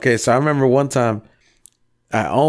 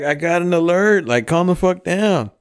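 retold exasperation; 7 semitones higher than usual. Own retold reply in fight.

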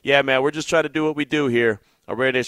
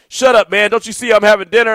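retold angry snap; 5 semitones higher, 4 dB louder than usual. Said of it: "he was so mad".

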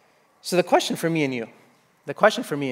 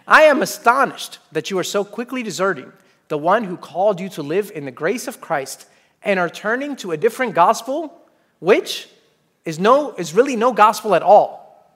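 louder, indignant reading; angry Paul; 2 semitones higher, 3 dB louder than usual. Acted. Preacher reading Paul's letter to the church, indignant. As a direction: let the anger come through the verse. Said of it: "you sense kind of anger in his voice".

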